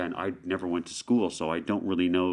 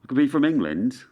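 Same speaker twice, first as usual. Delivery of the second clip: English accent; 4 semitones higher than usual. Shown as a demonstration. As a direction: play somebody from somewhere in England. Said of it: "I can switch over very quickly to another accent".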